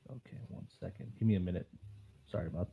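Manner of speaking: audio cutting out; faint broken-up phone line; call dropping out. Real, not acted. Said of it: "your connection is, like, cutting out".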